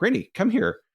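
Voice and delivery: high call across the house. Retold or imitated. Calling daughter to come.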